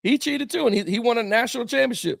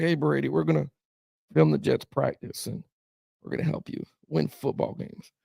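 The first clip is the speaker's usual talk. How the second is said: a hint of Belichick, softer and dropping to a near whisper at the end; Bill Belichick impression; 4 semitones lower, 6 dB quieter than usual. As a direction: mumble it like a coach plotting in secret. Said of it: "excellent Bill Belichick impersonation".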